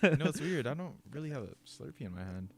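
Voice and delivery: laughing. Pretend. Joking mock complaint, laughing.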